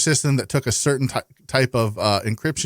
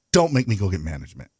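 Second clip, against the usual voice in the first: lower, lightly voiced dad warning; 4 semitones lower than usual. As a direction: put on a bit of a dad's authority, pitched down. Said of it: "in my best dad voice".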